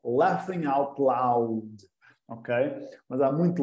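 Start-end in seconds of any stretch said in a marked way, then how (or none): 0.0-1.9 slow, soft, word by word; slow teacher model; very slow expansion. Shown as a demonstration. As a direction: spell out the acronym.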